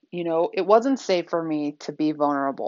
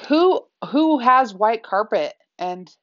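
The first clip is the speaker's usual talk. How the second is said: a playful retelling of her scandalized complaint; mock indignant disbelief. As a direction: drag out the who like an exasperated guest. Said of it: "she said, was to say".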